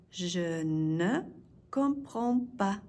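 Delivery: "Je ne", pause, then "comprends pas"; broken up slowly. Shown as a demonstration. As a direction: draw out Je ne comprends pas in two parts. Teacher breaks phrase up for learners.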